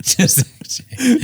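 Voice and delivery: very high, slow squeak; squeaky mock echo. Mocking his cohost's line, very high and slow. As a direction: squeak the line back slowly.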